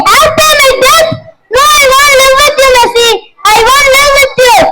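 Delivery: high, indignant protest; outraged retort. Acted. Trapped man protests angrily at the reporter. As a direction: throw it back at her, outraged.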